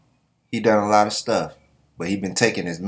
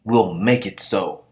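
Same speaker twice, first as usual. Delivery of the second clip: Ruboku's grand vow; 4 dB louder, slower than usual. Retold or imitated. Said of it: "And Ruboku's like".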